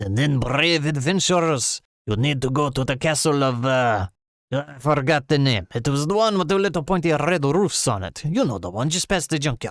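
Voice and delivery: put-on Russian accent. Mocking how a game module's dialogue sounds, voicing the quoted narration for listeners. russian accent. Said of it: "(in amazing Russian accent)".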